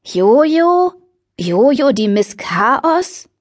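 high startled "Jojo?" slowing to a drawn-out scoff; recoil, then sneer at the name. Acted. Sarah hears that Jojo helps and recoils in surprise. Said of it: "schien zusammenzuzucken".

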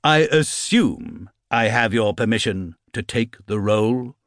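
sarcastic. Acted. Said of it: "he called sarcastically".

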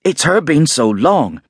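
high, fussy landlady. A narrator's reading. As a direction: voice the flustered innkeeper's wife. Mrs Hall voiced in story.

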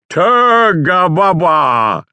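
garbled announcer. Shown as a demonstration. Worn out, a slow garbled announcer read. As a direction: mash the line into babble. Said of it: "I was barely intelligible at this point".

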